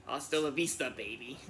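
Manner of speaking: a hint of Austrian Arnold accent, trailing off softly; understated Austrian action-hero catchphrase; Arnold Schwarzenegger impression. Trying the famous catchphrase for a fan, in a faint Austrian accent. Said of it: "can you do an Arnold Schwarzenegger accent".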